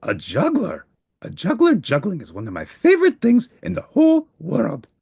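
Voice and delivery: thrilled monster fan; excited Grover. Acted.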